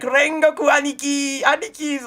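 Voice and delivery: high adoring cry of big brother; gushing fans. Retold or imitated. Streamer voicing the kids adoring Rengoku, gushing. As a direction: fawn over him like starstruck kids.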